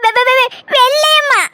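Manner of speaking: slow, frightened stammering of the name; scared stammer. Acted. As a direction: stutter it out in fear of the police. Scared granny questioned by police. (போலீசுக்கு பயந்து திக்கித் திக்கிப் பேசுதல்)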